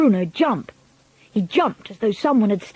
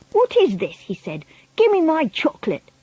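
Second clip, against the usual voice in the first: put-on demanding boy; 7 semitones higher than usual. A narrator's reading.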